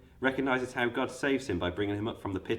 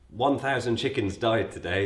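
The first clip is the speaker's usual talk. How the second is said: mock news headline; 3 dB louder than usual. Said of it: "It's not a news broadcast".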